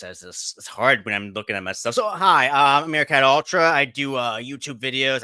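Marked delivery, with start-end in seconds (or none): 2.0-5.2 high, loud chirpy meerkat voice. Shown as a demonstration. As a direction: pitch up into a bright chirpy meerkat. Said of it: "let me see if I can do the Meerkat voice".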